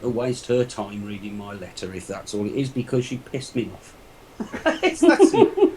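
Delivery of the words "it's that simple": high-pitched, laughing admission. Real, not acted. Guest owning up to his annoyance, laughing. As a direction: laugh right through the words.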